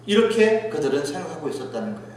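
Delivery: ordinary talk, nothing marked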